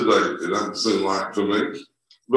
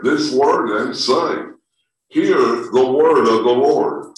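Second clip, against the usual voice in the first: scripture reading. Acted. Pastor reading scripture to the congregation, measured and solemn. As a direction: read the verses out with weight. Reads scripture aloud in service.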